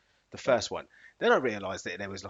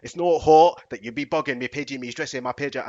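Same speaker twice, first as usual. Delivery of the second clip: put-on Scottish accent; 7 dB louder than usual. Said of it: "in a Scottish man's accent".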